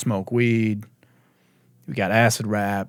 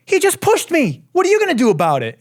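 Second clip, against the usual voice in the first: mock bar girl; 4 dB louder than usual. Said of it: "and then she's like".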